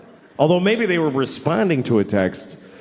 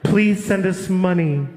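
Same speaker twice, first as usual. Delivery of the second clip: charity ad voice; slower than usual. Retold or imitated. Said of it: "And the voice comes on".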